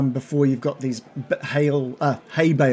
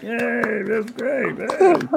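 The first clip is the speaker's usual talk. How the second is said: crowd cheer; 8 semitones higher, much slower than usual. Acted.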